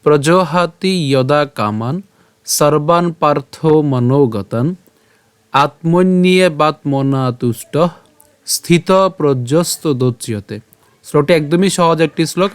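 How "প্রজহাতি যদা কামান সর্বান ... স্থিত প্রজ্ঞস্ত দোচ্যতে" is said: slow, measured shloka recitation; Sanskrit verse recitation. Shown as a demonstration. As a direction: recite the verse slowly, drawing out the long vowels. (ধীরে টেনে টেনে শ্লোক পাঠ)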